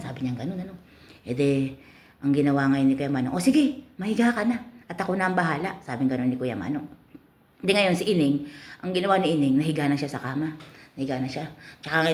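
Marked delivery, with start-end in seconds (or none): 3.3-5.8 eager customer. Acted. Customer tells girl lie down.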